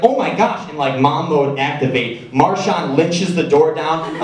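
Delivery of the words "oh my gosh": shocked mom. Retold or imitated. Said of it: "she's like".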